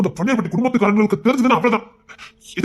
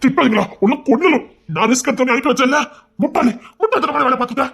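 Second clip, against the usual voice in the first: angry scolding; 5 semitones higher than usual. Acted. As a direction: tear into her for her foolishness. Man scolds girl who skipped flight.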